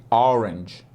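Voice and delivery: Orange with a faint tch at the end, barely there; orange, soft ending. Shown as a demonstration. Teacher showing the faint G at the end of orange. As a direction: let Orange end on a weak tch, almost a hiss. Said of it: "No finalzinho tem um G, mas muito fraquinho".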